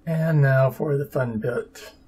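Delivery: dry, mock-cheerful sarcasm; overly sarcastic, fake enthusiasm. Real, not acted. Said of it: "I'm being overly sarcastic there".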